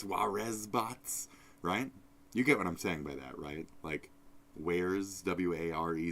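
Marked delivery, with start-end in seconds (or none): 0.0-1.3 "Juarez bots" drawn out slowly with a rise; pronounced Juarez. Retold or imitated. Mishearing the title as a name, slow and questioning. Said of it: "It's like".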